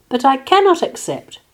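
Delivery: high, firm, polite refusal; mock-sweet refusal. A narrator's reading. Martina turns down the pig, sweetly. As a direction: lift the voice for a sweet no. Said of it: "said Martina sweetly".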